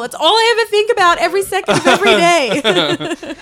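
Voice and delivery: sarcastic. Acted. Sarcastic mock of friend.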